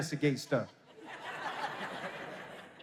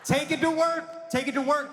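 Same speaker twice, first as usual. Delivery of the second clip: urging; 6 semitones higher than usual. Acted. Urging the ladies excitedly.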